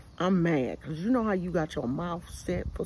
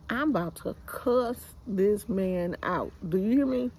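usual speaking voice

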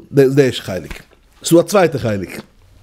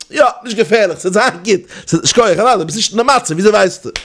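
mock reply; 6 semitones higher than usual. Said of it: "sei gering zu sagen, von jenem".

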